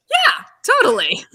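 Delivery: hammed-up breezy confidence with a laugh; faking cool. Actress assuring the director she can do it, faking cool. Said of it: "I'm trying to be Miss, Miss Cool".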